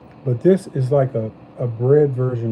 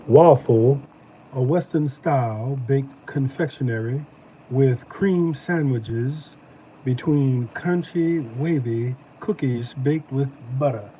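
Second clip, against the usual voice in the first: slow, drawn-out Southern accent reading the package; slower than usual. Shown as a demonstration. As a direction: read the label again in a lazy Southern drawl. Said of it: "Let me do it in my southern voice".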